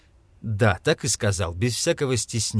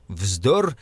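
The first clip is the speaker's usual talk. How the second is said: ordinary delivery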